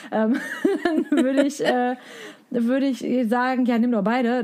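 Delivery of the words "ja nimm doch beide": flapsiger Verkaufsrat. Shown as a demonstration. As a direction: rate lässig und flapsig zum Kauf. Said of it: "würd's vielleicht irgendwie flapsig klingen".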